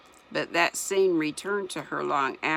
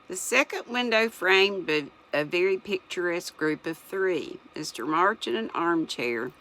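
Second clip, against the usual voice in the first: words slurred by slipping dentures; reading around loose false teeth; 2 semitones higher than usual. Real, not acted. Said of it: "Sorry, my dentures are sliding".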